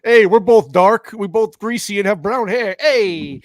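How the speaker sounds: goofy buddy voice, slow and loud at first; playful character voice. Retold or imitated. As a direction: ham up a friendly greaser. Mimicking character's greeting.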